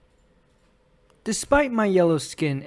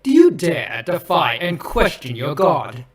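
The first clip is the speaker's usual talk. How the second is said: imperious challenge. Acted. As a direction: demand it like an offended god. Villain challenges captives as their god.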